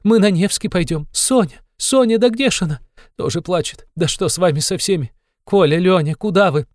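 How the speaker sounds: put-on very high, loud, calling the children in alarm; frightened cry. A narrator's reading. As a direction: call out for the children in sudden fright. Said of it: "вскрикнула она вдруг в испуге". (испуганный высокий крик)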